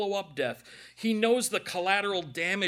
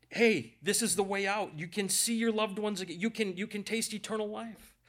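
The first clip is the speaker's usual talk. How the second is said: higher-pitched earnest plea; pleading; 4 semitones higher than usual. Acted. Preacher urging men toward the way out, pleading. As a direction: plead through real emotion. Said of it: "We, we plead with men".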